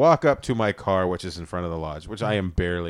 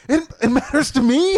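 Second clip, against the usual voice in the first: high, laughing near-tearful protest; 14 semitones higher, 4 dB louder than usual. Retold or imitated. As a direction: squeak it out through laughter. His protest, near tears, laughing.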